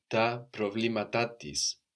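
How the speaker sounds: slow "Τα προβλήματά της" with a second stress on "-τά"; "προβλήματά" said slowly with its secondary accent on "-τά"; two accents. Shown as a demonstration. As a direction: stress both "προ-" and "-τά" in "προβλήματά". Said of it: "we have two accents".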